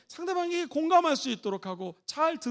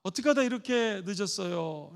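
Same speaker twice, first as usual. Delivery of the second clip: quiet concerned; 5 semitones lower than usual. Shown as a demonstration. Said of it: "아내가 조용히 얘기합니다".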